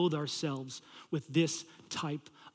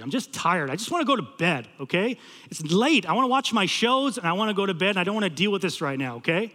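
loud acted grumbling; mad, frustrated; 3 semitones higher, 4 dB louder than usual. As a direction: complain with mild, retold exasperation. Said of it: "I'm one part just mad".

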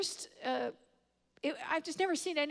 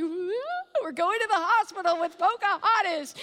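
louder, higher celebratory whoop; excited cheer; 5 semitones higher, 6 dB louder than usual. Retold or imitated. Two friends cheering on the way to the hospital. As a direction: retell the thrill of the ride, cheering.

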